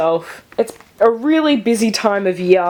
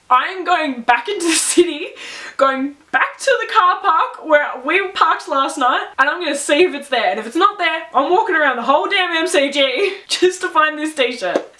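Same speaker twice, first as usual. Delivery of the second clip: determined vow; 5 semitones higher than usual. Retold or imitated. Retold vow to search the city.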